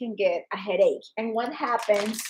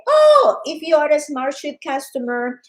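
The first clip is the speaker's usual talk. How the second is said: mock company announcement; 5 dB louder than usual. Company announcing a discount, in excited promo voice. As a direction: hype it up like a sales promo.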